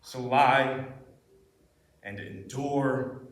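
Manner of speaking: intense monologue. Acted. Actor talking to themselves in a monologue, intense. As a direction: let it fall from the outburst into heavy pauses. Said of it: "This was a really intense monologue".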